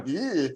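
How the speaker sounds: mock squeamish "ugh"; disgusted groan. Comic mimics audience reacting to the kidney story, mock disgust. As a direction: imitate a grossed-out crowd. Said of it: "some of you are going".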